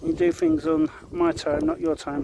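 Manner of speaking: high slow stern lecture to the dog; strict scolding. Real, not acted. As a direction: spell out who's boss slowly. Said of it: "why I yell at you".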